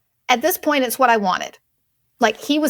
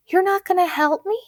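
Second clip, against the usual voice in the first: pitched-up, pleading mock whine; whiny mom imitation; 9 semitones higher than usual. Daughter mocks her mom's plea, high and whiny. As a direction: mimic a mother begging for help.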